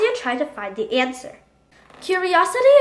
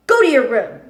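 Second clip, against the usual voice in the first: stern order; 2 semitones lower, 5 dB louder than usual. Acted. Father sends son away.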